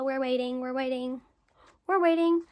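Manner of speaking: each repeat pushes harder until it bursts; growing impatience. Retold or imitated. Stuck in the hospital waiting room, building to an exasperated outburst.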